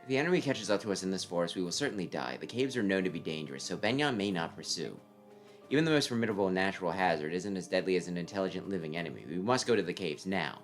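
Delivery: cool, measured voice of a strategist; calm tactician voice. Acted. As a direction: lay out the plan coolly. Tactician insists.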